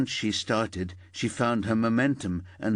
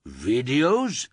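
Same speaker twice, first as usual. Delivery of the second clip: near tears; 4 semitones higher, 4 dB louder than usual. Acted. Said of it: "sounded as if he'd be the next one in tears".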